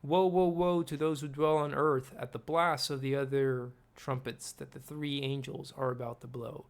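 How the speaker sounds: proclaimed loud and solemn, like a warning from above; the eagle's cry. Acted. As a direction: call out the woe like a crying eagle. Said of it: "That's the eagle's cry".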